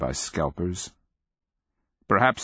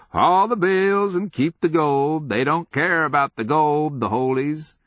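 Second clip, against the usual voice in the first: put-on high-pitched old-man rambling; crazed old sergeant's lifted voice; mad old man; 8 semitones higher, 4 dB louder than usual. A narrator's reading. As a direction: crow the orders excitedly. Old sergeant quoting orders.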